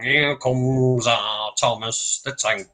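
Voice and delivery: put-on a clumsy Liverpool accent doing a famous drummer; bad Scouse accent. Mocking a narrator faking a musician's Scouse accent. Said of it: "this terrible Scouse accent".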